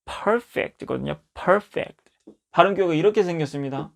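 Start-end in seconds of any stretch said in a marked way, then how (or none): 1.3-2.0 "perfect" with the stressed syllable pitched higher; "perfect" as a higher-pitched pronunciation demo; English stress demo. Shown as a demonstration. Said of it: "강세가 여기 있어요".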